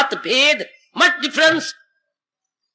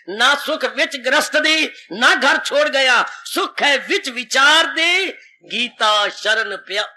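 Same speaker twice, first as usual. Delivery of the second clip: recited verse; slower than usual. Acted. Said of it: "कितना अच्छी बात कह गए".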